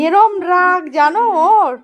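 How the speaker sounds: slow, laughing disbelief; half-laughing complaint. Real, not acted. Owner laughing about her pet's temper to viewers, slow laughing disbelief.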